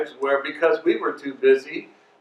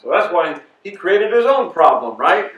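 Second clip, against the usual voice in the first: dry mock blame; sarcastic; 2 semitones higher, 4 dB louder than usual. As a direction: say it with a knowing sarcastic edge. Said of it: "I'm just being sarcastic".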